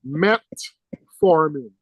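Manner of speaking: "Metformin" drawn out slowly as MET, formin; corrected pronunciation. Shown as a demonstration. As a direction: stress and separate "Met" in "Metformin", no extra vowel. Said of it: "it's not metformin".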